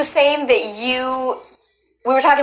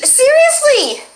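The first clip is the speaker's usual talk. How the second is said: very high, drawn-out squeal of disbelief; astonished high-pitched shriek; shocked surprise; 14 semitones higher, 3 dB louder, much slower than usual. Real, not acted. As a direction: gasp it out, stretched and sky-high. Learns the guest is Canadian.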